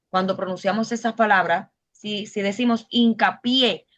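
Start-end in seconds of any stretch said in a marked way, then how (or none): 2.9-3.9 "hincapié" pausado, con fuerza en la sílaba final pié; acento en la última. Shown as a demonstration. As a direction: carga la voz en el pié de "hincapié". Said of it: "está en la última sílaba, la fuerza". ("hincapié" con la última sílaba acentuada)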